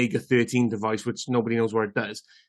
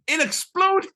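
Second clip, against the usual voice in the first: much higher, excited squeal. Real, not acted. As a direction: shriek it with glee. Excited repeat of the punchline.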